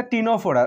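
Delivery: টিনোফোরা begun on the t, its written C unsounded; silent C. Shown as a demonstration. Teacher introducing the third phylum, টিনোফোরা with silent C. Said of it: "কিন্তু উচ্চারণ হবে না".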